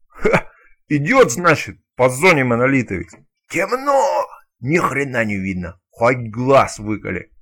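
loud, slow-paced stalker telling a crude joke; rowdy joke teller. Acted. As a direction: belt it out like a rowdy campfire storyteller. Stalker tells a joke loudly.

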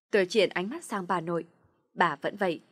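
ordinary delivery

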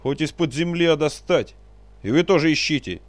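loud, high angry shouting; shouted orders. Acted. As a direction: keep yelling at everyone. Boyar keeps shouting orders.

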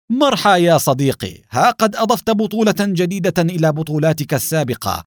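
embrace your friend with delight; joyful greeting. Acted. Hazem hugging Adham after his escape, joyful greeting. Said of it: "ليحتضن أدهم قائلا بفرحة".

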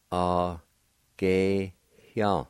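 A, ge, hyang with a faint H sound between the e and the y; faint h before y. Shown as a demonstration. Teacher shows the faint H sound to learners. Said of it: "There's a faint H sound between the E and the Y".

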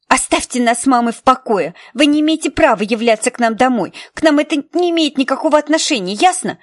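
put-on defiant teenage girl shouting; angry outburst. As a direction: snap back at her hotly. Nicky yells at Helen.

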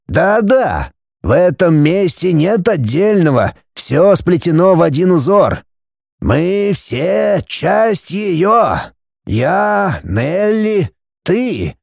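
a hint of a mystic old man explaining; old Kofler's voice.

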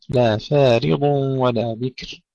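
فارض with thin fa and full dark ض; light fa, heavy dad. Shown as a demonstration. Teacher modelling the verse, light fa then heavy dad. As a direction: slowly recite thin ف, then thick ض. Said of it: "ترقيق الفاء ثم تفخيم الضاد".

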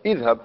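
اذهب said as idhhab; kasra on hamza. Shown as a demonstration. Teacher giving the answer to students, kasra on hamza. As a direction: begin اذهب with a clear i. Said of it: "تكسرها".

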